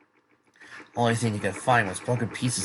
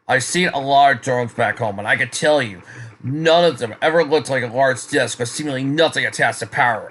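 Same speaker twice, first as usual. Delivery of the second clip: insistent arguing; 3 semitones higher, 6 dB louder than usual. Acted. Soldiers arguing over the object.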